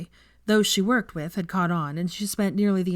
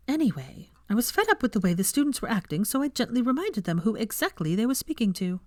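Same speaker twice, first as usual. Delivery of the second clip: higher, breezy bright voice; brightly; 5 semitones higher than usual. Acted. Hermione breezily explaining to friends, bright higher voice. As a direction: brush it off lightly. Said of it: "then said brightly".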